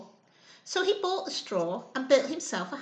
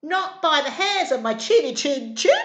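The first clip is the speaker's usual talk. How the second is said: squealing pig; 7 dB louder than usual. Acted. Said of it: "squealed the little pig".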